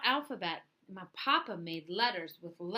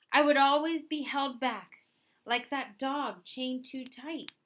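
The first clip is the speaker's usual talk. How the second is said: much louder, determined; passionate outburst; 5 semitones higher, 6 dB louder than usual. Acted. Louis insisting he will not be held back, loud. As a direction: push hard against the fate.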